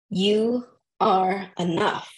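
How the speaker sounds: tearful, voice catching on the words; fighting back tears while reading; choked up. Real, not acted. Reading an affirmation aloud to herself, tearful. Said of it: "Sorry, I'm trying not to get emotional".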